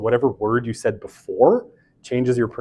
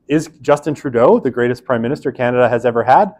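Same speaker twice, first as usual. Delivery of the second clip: mock confused answer; 4 dB louder than usual. Shown as a demonstration. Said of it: "What does that even mean".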